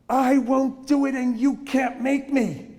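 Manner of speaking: high, fast mock defiance; defiant child. Disrespectful child talking back, in high fast mock defiance. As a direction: sass back like a stubborn kid. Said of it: "very disrespectful".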